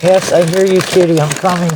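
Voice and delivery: soothing pet-talk calling a hidden cat; coaxing kitty call. Real, not acted. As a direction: coax the kitten out gently. Calling to a crying kitten.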